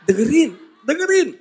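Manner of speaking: urgent mock hushing from heaven; shushing angel. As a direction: hush everyone so they can listen. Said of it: "malaikat di surga bilang".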